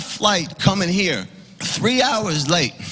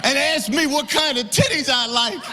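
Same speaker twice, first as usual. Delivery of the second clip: raised, ranting, a little higher; retold rant, pitched up; mock rant; 5 semitones higher than usual. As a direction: rant at the barista, half-laughing.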